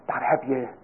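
normal talking voice

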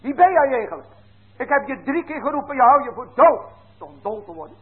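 angry parent scolding. Retold or imitated. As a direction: tell the deaf child off, loud and high. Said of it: "En zeggen die".

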